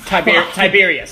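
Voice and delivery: weird ethereal voice. Acted. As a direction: speak like mist filling the room. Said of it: "in a weird ethereal voice that surrounds the room".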